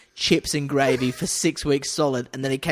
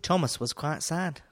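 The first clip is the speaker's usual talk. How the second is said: put-on slow Scouse children's narrator; a singer's voice; 3 semitones higher, 3 dB quieter than usual. Narrating Thomas for the cohost, slow impression of a singer. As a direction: put on a slow Liverpool storytelling voice. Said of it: "that's my impression of a singer".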